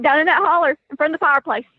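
quick East Tennessee hill-country accent; thick Tennessee accent. Real, not acted. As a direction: rattle it off in a Tennessee holler accent. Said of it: "I didn't understand any of that sentence".

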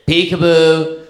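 mock-cute peekaboo; playful peekaboo. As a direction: drag out the peekaboo like a game with a baby. Boy playing peekaboo with sister.

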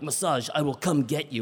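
quiet, menacing Russian promise; threatening. Retold or imitated. Attendant promising massage to the guests like a threat. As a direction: make it sound like a threat. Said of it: "said it like a threat".

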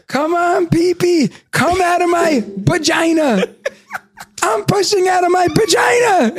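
put-on high, loud little girl straining on the potty; toddler voice. Daughter on the potty, imitated as a loud high toddler. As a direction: squeal it like a toddler pushing hard. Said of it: "she goes".

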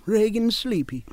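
high, slow brutish Reagan voice; drowsy dim-witted giant; Ronald Reagan as a brute. Pretend. Reprising the Reagan bit for the hosts, high and brutish. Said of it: "Ronald Reagan attacking a McDonald's".

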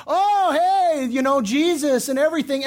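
put-on chummy holiness; mock piety. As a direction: imitate a falsely devout businessman. Mocks a hypocritical Christian businessman.

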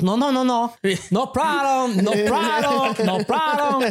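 high, drawn-out imitation of dismissive insistence; insistent mock refusal. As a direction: wave it all away in a high mimicking voice. Acts out man refusing any blame.

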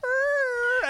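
high, drawn-out imitated animal whine; thin high mewl, held long; baby creature cry. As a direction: imitate an orphaned cub wailing. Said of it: "its baby was like".

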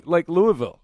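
Louisville with Louis clear in it, LOO-ee-vil; pronounced from Louis. Shown as a demonstration. Clearing up the confusion about the bat, Louisville as LOO-ee-vil. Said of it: "No, just Louis".

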